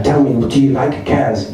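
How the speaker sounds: put-on slow French-accented interviewer; French radio reporter's accented English. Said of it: "lapse into English with a French accent".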